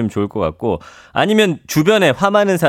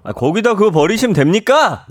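mock indignant challenge, pitched up; 화내며 따짐; 6 semitones higher than usual. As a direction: confront a litterer, half in earnest. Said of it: "이렇게 또 화를 내가지고". (높은 음으로 따지는 척)

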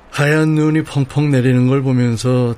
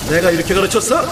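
harsh barking commands; 4 semitones higher than usual. Acted. Chef scolding cook.

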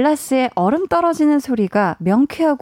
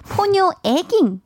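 cute high voice; 6 semitones higher, slower than usual. Shown as a demonstration. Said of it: "이게 무슨 줄임말이냐면요".

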